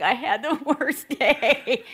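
whiny husband moaning about his day, with a laugh; mock moping husband. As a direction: play the sulky spouse and crack up. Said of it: "Dave's sitting on the couch like".

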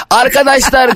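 high, drawn-out call to the listeners; mock loud greeting. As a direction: call out the opening word. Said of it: "niye Arkadaşlar Günaydın diye bağırıyorsun".

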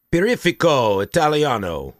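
Barifico Italiano rolled out in a hammed-up Italian accent; mock Italian accent. Self-mocking his own Italian accent for the co-host. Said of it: "That was racist".

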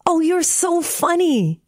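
put-on high-pitched, delighted child; amused. A narrator's reading. Tearful watching the frog dance for joy, high amusement. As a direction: say it lightly amused, pitched well up. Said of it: "Tearful laughed again".

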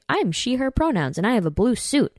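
high-pitched mocking imitation; quoting a viral clip, mocking it in a high voice; mocking Kamala quote. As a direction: parody her in a lifted, silly voice. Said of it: "Kamala's going viral right now for saying".

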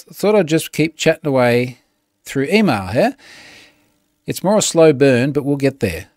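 a hint of an exaggerated Australian ocker read; lightly hammed-up outback bloke accent; Crocodile Dundee Aussie. Reading a spam reply as a lightly played Australian bushman. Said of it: "in the most Crocodile Dundee of tones".

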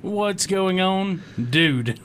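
lightly put-on, drawn-out little girl greeting; little girl sitcom voice. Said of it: "You sound like that little girl off Full House".

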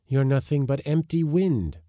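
scornful outburst; insisting. A narrator's reading. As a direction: push back against the ghosts. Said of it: "insisted Leonard Sale".

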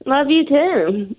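slow, dutiful love-you-too; slow, insincere endearment; mock-sincere. Real, not acted. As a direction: draw it out with doubtful sincerity. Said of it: "Sounded so sincere".

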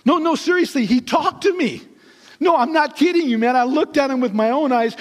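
high-pitched, earnest mock protest; excited insisting. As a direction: act out a woman desperate to be believed. Acted Mary insisting to doubting disciples.

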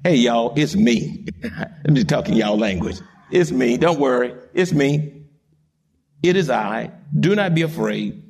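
low, easy, understated reassurance; reassuring Jesus. Acted. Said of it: "Be of good cheer".

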